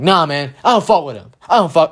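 mock tough-guy bravado; mocking street-tough swagger; tough kid. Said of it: "like, super tough".

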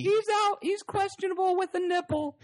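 high, bright mock TV reporter; sideline reporter voice.

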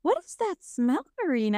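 high, delighted what's-that-smell; a sudden pleased discovery; curious sniffing husband. Retold or imitated. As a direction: boyfriend sniffing out the bread in the kitchen. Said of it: "he's like".

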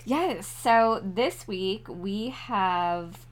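slow Southern twang drawl; playful Tennessee twang; southern accent. Pretend. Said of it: "That accent's really good".

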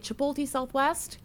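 "Chipotle" as chi-POLE-tee; sister's mispronunciation. Retold or imitated. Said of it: "She could not say it".

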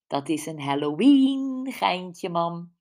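slow, drawn-out teasing. Acted. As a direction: draw out Halloween to tease mum. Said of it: "stak plagend haar tong uit".

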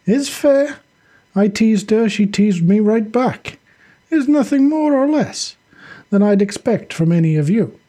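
lifted character voice, matter-of-fact; Sasha defending himself. Acted. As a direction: argue it firmly to your comrades.

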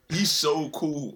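a hushed admiring whisper. Real, not acted. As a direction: whisper it, slow and airy. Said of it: "whispered repeat".

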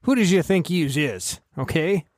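lightly voiced old-time tough guy; a hint of a 1940s wiseguy; old-timey voice. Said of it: "speaking of old-timey voices".

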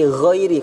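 ghairi with voiced upper-throat gh; correct gh. Shown as a demonstration. Teacher giving the right form, voiced gh in ghairi. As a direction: gargle the gh in ghairi lightly. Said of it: "hurufnya ghin ya".

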